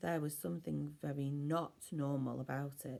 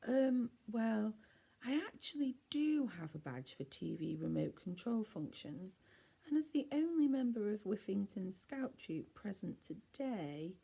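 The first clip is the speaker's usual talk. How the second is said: high, hesitant proud scout voice; nervous Norman; 5 semitones higher than usual. A narrator's reading. Norman nervously boasting of his scout badge to the kids. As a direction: stammer out your credentials.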